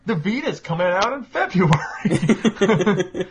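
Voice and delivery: hammed-up mock promo line with a laugh; mock store display. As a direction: spoof a tired store sign, slow and amused. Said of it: "it's just like".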